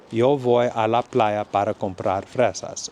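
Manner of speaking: again yo with a clear y sound; Spanish like a Colombian or Mexican. Shown as a demonstration. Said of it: "I'd say".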